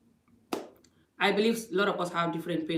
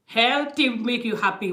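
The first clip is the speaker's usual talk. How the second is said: Healthy said slower and louder, punched first; stress on Healthy; 3 semitones higher, 4 dB louder, slower than usual. Shown as a demonstration. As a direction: lean hard on Healthy. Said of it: "but a healthy way".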